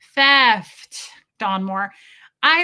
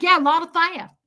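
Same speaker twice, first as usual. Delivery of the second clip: higher, louder imitation of the sergeant; sergeant's voice; 6 semitones higher, 6 dB louder than usual. Imitating the sergeant, higher and louder. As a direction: put on his voice for the line. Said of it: "And he was like".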